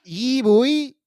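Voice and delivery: hammed-up American hype; mock American caller; American accent. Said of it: "sound a little bit, uh, American".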